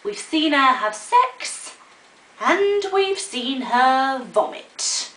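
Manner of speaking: lightly voiced gossiping neighbours; scandalised neighbours, drawn out at the end; muttering neighbours. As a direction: gossip about her, starting high and slowing down. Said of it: "everyone in the neighbourhood would mutter".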